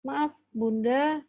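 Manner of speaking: slow, measured parental refusal; calm firmness. Shown as a demonstration. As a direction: calmly hold the line. Calm parent answering loud child.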